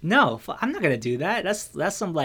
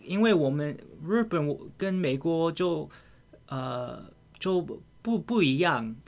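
put-on Japanese accent; 2 semitones higher than usual. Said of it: "she says with a Japanese accent".

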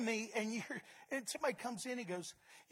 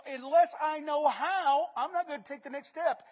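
doubter's demand; 4 semitones higher, 9 dB louder than usual. Retold or imitated. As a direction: insist like a doubter. Voicing people of no faith.

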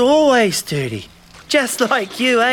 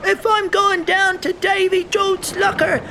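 pirate captain; 4 semitones higher than usual. Pretend. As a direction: pretend pirate, high and hammy. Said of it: "Captain Charlie".

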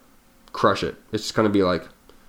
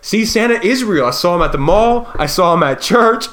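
higher-pitched mock kid insisting; imitating excited child; 8 semitones higher, 4 dB louder than usual. Daughter tells parents she saw Santa, excited mock child voice. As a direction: argue it like a convinced little kid. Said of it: "she's like".

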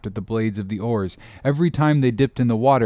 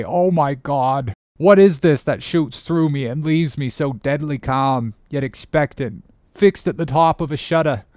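understated, awed first mate musing; measured inward soliloquy with a touch of dread; Starbuck; 3 semitones higher than usual. Acted. Mate watches his captain row away, musing in restrained dread.

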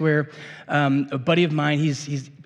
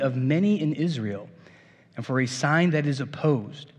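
scripture reading. Acted. Reads scripture aloud to congregation.

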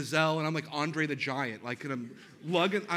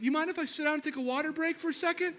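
high, fast, laughing plea; laughing request to the wife for a water break; sheepish ask; 11 semitones higher, faster than usual. Retold or imitated. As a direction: ask for a break a little embarrassed. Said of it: "And I was like".

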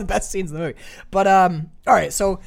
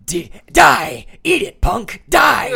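high, loud action-hero yells; mock movie shouting; 10 semitones higher, 9 dB louder, much slower than usual. Imitating the TV gunfight his grandma watched, high mock shouting.

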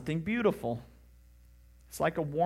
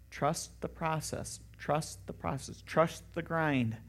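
coach's advice; 7 dB quieter, slower than usual. Retold or imitated. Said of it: "what do coaches tell their players".

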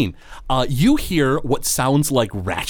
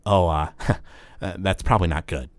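nervous halfling; 6 semitones lower, 4 dB quieter than usual. Acted. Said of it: "the cloaked figure goes".

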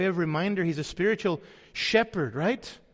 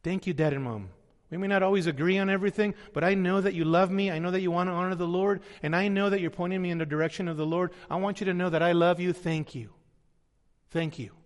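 sincere thanks to parents; 2 semitones lower than usual. Pretend.

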